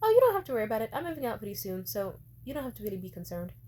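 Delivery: light, airy brush-off that starts high and loud, then settles; breezy dismissal. Retold or imitated. Daughter dismissing mom's demand, airy and unbothered. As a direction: brush her off sweetly. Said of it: "I said".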